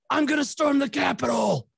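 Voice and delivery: high, mocking put-on voice of a riled-up white guy; mock white rioter. Comic mocking white people for her audience, in a high put-on voice. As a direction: lampoon the Capitol stormer in a high silly voice. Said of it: "white people are like".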